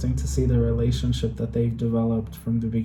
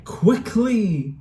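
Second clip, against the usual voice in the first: anguished denial; 5 semitones higher, much slower than usual. Real, not acted. Watching war scene, pleading.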